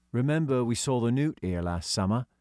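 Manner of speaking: hint of a kid's voice; lightly voiced schoolboy George; lightly voiced boy. Child character voice George.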